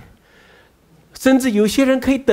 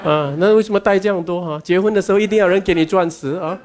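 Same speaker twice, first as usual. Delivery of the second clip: laughing tease. Real, not acted. Teasing sisters about diamonds.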